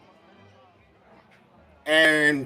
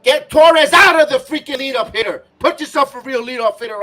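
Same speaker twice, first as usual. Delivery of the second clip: higher, louder furious demand; angry shout; 5 semitones higher, 4 dB louder than usual. Real, not acted. Fan yelling at the manager to drop Torres, angry shout. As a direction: yell it at the manager. Fan raging at lineup choice.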